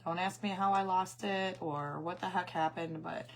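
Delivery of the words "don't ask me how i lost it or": hoarse voice cutting in and out; raspy, barely there voice; losing voice. Real, not acted. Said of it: "I have no voice".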